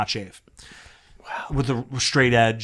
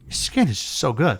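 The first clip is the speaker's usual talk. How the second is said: lightly imitated South American accent. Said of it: "like, South American accent".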